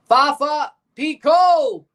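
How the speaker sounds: loud, high yell at the chance; real burst of excitement; excited shout. Real, not acted. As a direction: cheer the attack on. Cheering a near goal.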